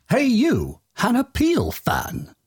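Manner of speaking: high, drawn-out hail to a fan; a playful high call to the listener. Acted. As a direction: sing out to grab their attention. Calling out to the listener.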